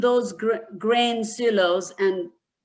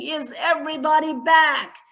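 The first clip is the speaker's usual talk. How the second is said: screaming; 4 semitones higher, 4 dB louder than usual. Acted. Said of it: "And he kept screaming".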